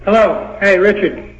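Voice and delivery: distant, hollow phone speaker sound; talking from across the room on speaker; on speakerphone. Real, not acted. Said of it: "you sounds like you're on a speakerphone".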